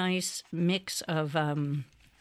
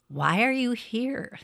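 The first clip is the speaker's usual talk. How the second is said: curious animals; 6 semitones higher than usual. Acted. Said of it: "they asked him".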